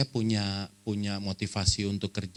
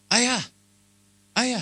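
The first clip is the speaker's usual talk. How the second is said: high mock child shout of Ayah; a child's excited high call; 5 dB louder than usual. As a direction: call out to dad across the supermarket, high-pitched. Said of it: "terus dia teriak gitu".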